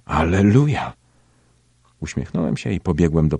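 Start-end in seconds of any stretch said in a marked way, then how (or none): 0.0-0.9 lifted, louder joyful call of hallelujah; joyful cry. A narrator's reading. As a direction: call it out with raised hands in joy. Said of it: "i zawołała". (radosny okrzyk, głośniej i wyżej)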